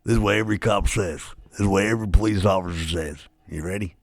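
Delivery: a lightly voiced small-town sheriff; imitating the sheriff. The sheriff setting up his redneck line, lightly imitated. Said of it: "he sounded just like this".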